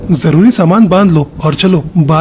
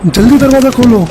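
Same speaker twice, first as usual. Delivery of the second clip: higher, urgent calling through a door; 5 semitones higher than usual. Acted. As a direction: call out to brother for help, pitched up. (भाई को दरवाज़े के बाहर से ऊँची आवाज़ में पुकारना)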